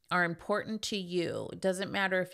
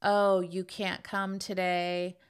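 guilt-tripping mom; slower than usual. Retold or imitated. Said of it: "makes you feel guilty to manipulate you".

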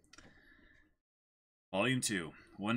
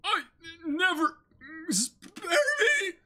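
high, crying plea for mercy; mock begging; 5 dB louder than usual. Crewman begs Buggy for mercy: high hammed-up cry. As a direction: beg the captain not to kill you.

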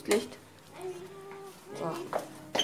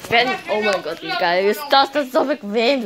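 gushing, louder and excited; 6 dB louder than usual. Real, not acted. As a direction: squeal over the comfy bed. Excited about comfy bed. (aufgedreht und begeistert)

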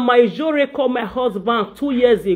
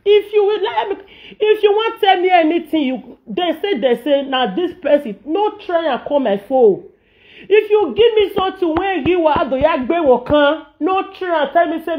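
high scolding; 5 semitones higher than usual. Real, not acted.

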